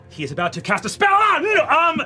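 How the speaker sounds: a spy panicking mid-report; frantic report. Acted. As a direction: blurt the warning in panic.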